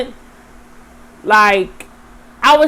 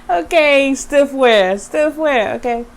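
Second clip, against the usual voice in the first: hyping up; 5 semitones higher than usual. Acted. Hyping herself up.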